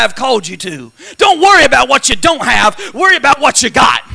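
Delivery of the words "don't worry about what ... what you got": preaching shout. Real, not acted. Preacher exhorting at full force.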